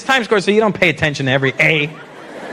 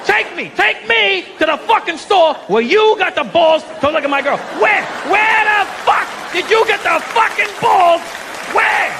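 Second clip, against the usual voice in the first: very high-pitched, escalating tirade; mock angry rant; 12 semitones higher, slower than usual. Angry Italian demanding an answer, hammed-up furious. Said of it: "is when they get angry".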